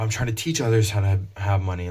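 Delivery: a hammed-up get-rich coach; money guru. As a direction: sell it like a self-styled money teacher.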